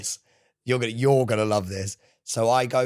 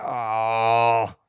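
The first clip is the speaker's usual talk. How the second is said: long, held groan on demand; straining groan; 5 dB louder than usual. Shown as a demonstration. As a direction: re-enact the pained straining noise, louder than talk. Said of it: "Do the noise again".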